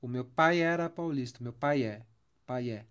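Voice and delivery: pai é blended into one syllable; elision demo. Shown as a demonstration. Teacher repeating the joined vowels for students. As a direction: merge pai é smoothly. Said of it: "como elas fossem uma só".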